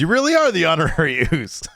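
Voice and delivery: says it through a real laugh mid-line. Retold or imitated. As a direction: retell Roman chuckling as he agrees. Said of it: "And Roman laughs".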